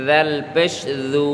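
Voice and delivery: voiced tongue-tip "th" on দাল, দু; tongue-tip dhal. Shown as a demonstration. Teacher showing the letter to learners, tongue-tip দাল. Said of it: "জিহ্বার আগা থেকে উচ্চারণ হবে".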